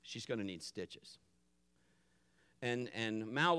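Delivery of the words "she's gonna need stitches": low, softened aside; hushed, lowered imitation of whispering; mild mock whisper. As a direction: confide it quietly to the other parent.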